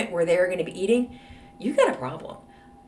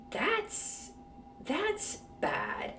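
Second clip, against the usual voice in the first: whispered aside; 9 semitones higher, 10 dB quieter, much slower than usual. Real, not acted. Host judges the kitchen.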